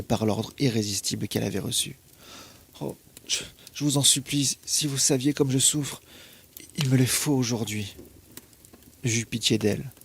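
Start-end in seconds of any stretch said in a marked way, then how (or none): 2.8-8.0 tearful begging. Acted. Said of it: "Elle pleurait et bégayait".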